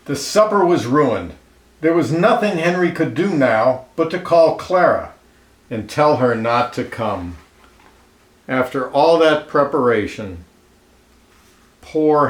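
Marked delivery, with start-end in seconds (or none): 0.1-7.4 lively read-aloud storyteller voice, clear and even; storybook narration. A narrator's reading. Reading a picture book aloud to children, lively storyteller voice. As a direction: tell it like a picture book for kids.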